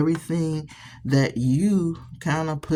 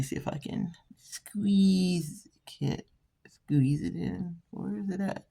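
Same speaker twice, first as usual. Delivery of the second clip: strained whisper; 4 semitones higher, 7 dB quieter than usual. Real, not acted. Squeezing arm into camera frame.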